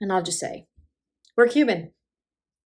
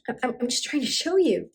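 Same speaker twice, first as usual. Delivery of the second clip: stammered, higher-pitched protest; acted defensive; 5 semitones higher than usual. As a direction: protest your good intentions, tripping on the start. Daughter defends herself.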